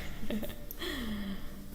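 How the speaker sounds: quiet laugh to oneself; soft chuckle. Real, not acted. Tarot reader amused while reading messages, soft chuckle. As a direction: let out a small, soft laugh.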